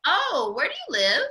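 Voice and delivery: a hint of a chirpy church lady asking; pastor's wife. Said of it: "She was like".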